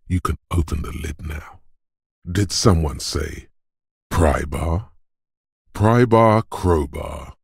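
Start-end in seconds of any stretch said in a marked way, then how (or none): 4.1-4.9 "Pry bar" with rising question tone; questioning echo. Acted. Quoting with questioning rise. 5.7-7.3 high, loud rapturous exclamation; exultant cry. Acted. Exulting over the beloved tool.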